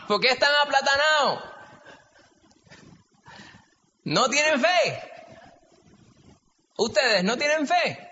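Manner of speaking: Puerto Rican Spanish. Shown as a demonstration. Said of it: "cómo diríamos en puertorriqueño esto". (acento puertorriqueño de barrio, agudo y fuerte)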